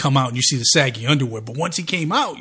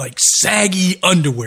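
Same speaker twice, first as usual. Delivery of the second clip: plain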